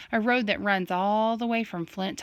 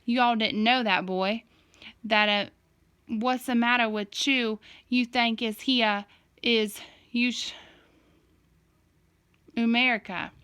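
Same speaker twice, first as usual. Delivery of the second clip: put-on Southern-style accent. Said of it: "encouraged Dad to say more Southern-style stuff".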